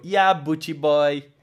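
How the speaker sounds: slow, drawn-out swagger; cocky reply. Retold or imitated. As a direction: lay on the cocky bravado. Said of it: "E eu". (resposta arrogante e arrastada)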